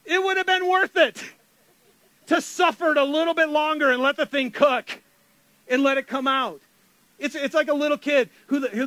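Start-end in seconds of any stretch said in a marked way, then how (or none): 0.0-6.6 higher, louder rueful self-talk; mock regretful cook. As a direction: talk to yourself after spoiling the dish. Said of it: "and you go".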